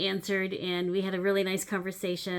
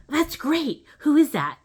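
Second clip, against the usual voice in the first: puzzled daughter; 7 semitones higher, 8 dB louder than usual. Retold or imitated. Daughter's puzzled reply voiced.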